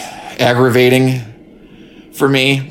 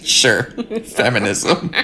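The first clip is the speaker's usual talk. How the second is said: laughing; 5 dB quieter, slower than usual. Real, not acted. Laughing wry echo.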